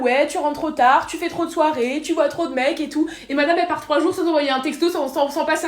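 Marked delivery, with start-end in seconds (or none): 0.0-3.1 singsong imitation of a moralizing mother; mock lecturing. Daughter imitating mother's lecture about late nights, mock scolding. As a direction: reel off the reproaches, imitating mum, slightly high. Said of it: "elle me fait la morale".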